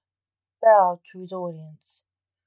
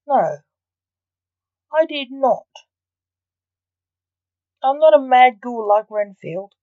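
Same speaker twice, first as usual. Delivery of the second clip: retort; 3 semitones higher than usual. Acted. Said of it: "Max retorted".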